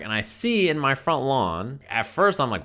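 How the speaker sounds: usual speaking voice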